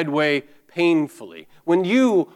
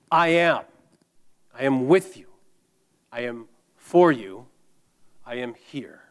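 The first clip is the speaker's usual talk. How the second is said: reassuring Jesus. Acted. Preacher voices Jesus reassuring listeners.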